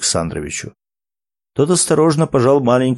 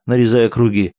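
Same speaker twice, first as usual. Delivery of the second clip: usual speaking voice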